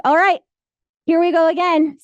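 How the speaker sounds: upbeat here-we-go-again energy; psyched-up self pep talk. Retold or imitated. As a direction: gear yourself up for another round. Pepping herself up again.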